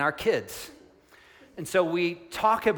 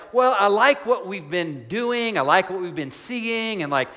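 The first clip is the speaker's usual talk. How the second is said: casual, starstruck Peter; 3 semitones higher, 4 dB louder than usual. Retold or imitated. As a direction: play Peter as an impressed fan, breezy and chatty. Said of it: "Peter's not just saying".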